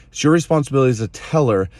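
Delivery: quick emphatic repeat, "your" stressed. Shown as a demonstration. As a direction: rattle it off again, leaning on "your". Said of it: "'cause it's your responsibility as a teller".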